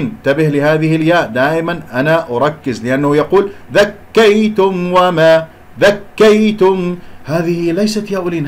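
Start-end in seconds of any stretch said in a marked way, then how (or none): 3.7-4.9 ذكيتم with the ي stressed and doubled; wrong doubled ي. Shown as a demonstration. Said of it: "هذه أصبحت ياء مشددة". 4.9-7.0 ذكيتم slow and drawn, ي pressed into a double; wrong stress on ي. Shown as a demonstration. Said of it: "هذه أصبحت ياء مشددة".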